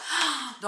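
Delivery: quick gasp of delight; sharp, wowed intake of breath; rapturous gasp. Real, not acted. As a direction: gasp at a remembered scent. Recalls the scent of the markets.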